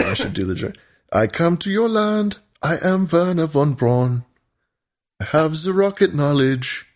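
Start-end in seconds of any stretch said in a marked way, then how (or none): 1.1-6.8 higher mock Russian accent. Host continues the mock Russian Werner von Braun voice. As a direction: ham up broken Russian English. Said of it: "This is my Russian accent doing Werner von Braun".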